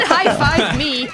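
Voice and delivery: mocking repeat. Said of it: "You said".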